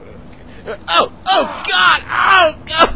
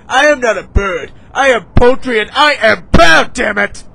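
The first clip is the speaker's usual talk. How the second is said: indignant declaration; 6 dB louder than usual. Acted. Indignant denial of being bird.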